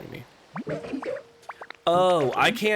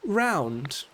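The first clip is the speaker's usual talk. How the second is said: put-on higher, genteel elderly lady voice; gracious Lapras; 6 semitones higher than usual. Streamer reads Lapras greeting Ditto, a gracious elderly lady. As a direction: play a kindly refined old sea creature.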